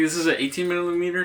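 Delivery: thin, roomy audio from the camera's built-in mic; in-camera mic sound. Shown as a demonstration. Filmmaker shows beginners the built-in camera mic, roomy and distant. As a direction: sound as if caught by the camera's mic across the room. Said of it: "this is how the in-camera audio sounds".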